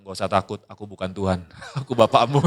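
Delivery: a low mock-solemn voice that cracks into laughter; father startles his son, mock-solemn then laughing; deadpan dad.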